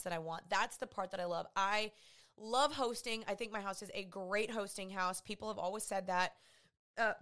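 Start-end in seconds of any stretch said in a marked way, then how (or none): 5.2-7.1 talking through a burp; a burp catching the words. Real, not acted. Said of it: "I literally have a burp every single episode".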